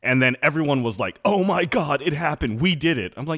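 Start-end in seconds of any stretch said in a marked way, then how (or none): 1.2-3.1 lightly put-on thrilled cheer, higher; mock excitement. Podcaster mimicking everyone's reaction to the Marvel casting, mock excitement. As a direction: imitate gushing celebration, pitched up.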